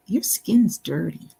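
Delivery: a hint of a Canadian kid's accent, close to own voice. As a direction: quote the boy with just a trace of Canadian accent. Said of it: "in his Canadian accent".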